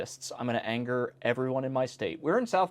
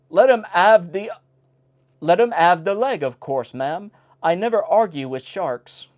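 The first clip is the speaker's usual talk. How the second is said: salty sailor; 4 semitones higher, 7 dB louder than usual. Acted. Old salt's punchline.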